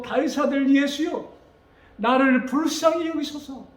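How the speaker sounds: high, fervent cry for mercy; earnest plea. Acted. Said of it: "정말로 간절한 마음으로".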